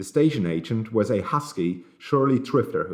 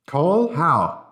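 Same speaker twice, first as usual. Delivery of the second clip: incredulous panic; 7 semitones higher, 5 dB louder than usual. A narrator's reading.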